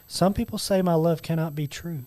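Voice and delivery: slow, hushed love-poem reading; romantic recitation. Acted. Reads a love lyric to his friends as romantic Valentine's poetry, romantic recitation. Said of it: "Why are you saying it like that?".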